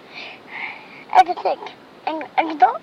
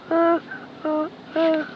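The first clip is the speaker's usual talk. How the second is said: hooting like an owl; 3 semitones higher than usual. Retold or imitated. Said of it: "He can sound like a owl".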